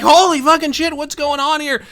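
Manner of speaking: imitating a stunned bystander; shocked disbelief. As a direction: react as if a fight just broke out. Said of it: "And I'm like".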